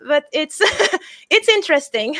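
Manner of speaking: laughing through the words. Real, not acted. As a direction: let a real laugh break into the line. Laughs while talking about throat singing.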